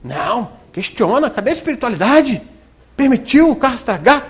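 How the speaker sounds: little devil. Retold or imitated. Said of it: "Aí o diabinho vem".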